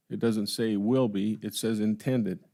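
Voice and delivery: slow, measured contrast of "will be" against "intended"; contrastive stress on INTENDED. Real, not acted. Commissioner pointing out the document's wording, stress on "intended". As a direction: set "will be" apart, then land deliberately on "intended". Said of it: "I stress the word intended".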